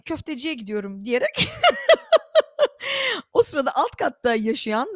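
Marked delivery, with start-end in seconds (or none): 0.1-1.1 laughing. Retold or imitated. Babayı gülerek aktarıyor.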